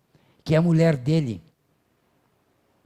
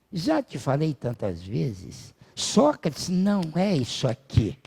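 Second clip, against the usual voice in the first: slow, measured philosopher, lightly voiced; a hint of an unruffled teacher; patient Socrates; slower than usual. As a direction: explain it slowly, with mild patience. Voicing patient Socrates explaining.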